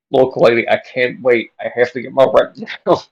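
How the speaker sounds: lightly voiced pushy landlord; demanding landlord. Landlord refusing to wait for rent, loud and insistent.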